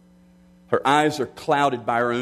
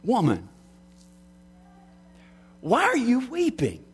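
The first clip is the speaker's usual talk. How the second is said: acted question, pitched well up; voice that comes; 10 semitones higher than usual. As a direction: call it out high, as a voice breaking into grief. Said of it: "Till the voice comes".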